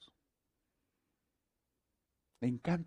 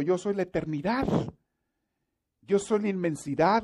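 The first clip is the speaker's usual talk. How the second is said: higher, louder, solemn commanding God speaking to Francisco; 4 semitones higher, 8 dB louder than usual. Acted. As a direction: proclaim as a mighty, insistent God. Preacher voices God to Francisco.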